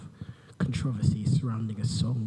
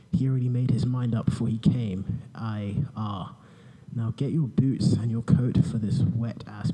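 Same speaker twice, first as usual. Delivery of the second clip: boring voice parody. Pretend. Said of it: "in my boring voice".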